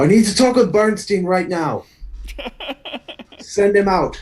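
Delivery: shrill, very high, demanding shout. In a role-play, a character strides up to a door and starts shouting. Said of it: "start shouting".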